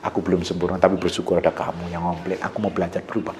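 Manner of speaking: low, very soft, humble; hushed, conciliatory husband voice; tender apology. Acted. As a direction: apologise gently to your wife. Acts out a soft apology to wife.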